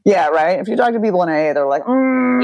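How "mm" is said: high-pitched "mm" hum; mimicked hum. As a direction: hum high in mock response. Mimicking others' reaction, high hum.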